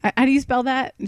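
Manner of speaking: high-pitched, puzzled query; puzzled asking. Retold or imitated. Clerk asking caller to repeat her address, puzzled. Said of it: "I had to ask her".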